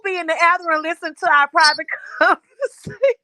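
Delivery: words breaking into laughter; laughing. Real, not acted. Friend teasing niece about overhearing them, laughing. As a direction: laugh through the end of the sentence. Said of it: "That's why I'm laughing".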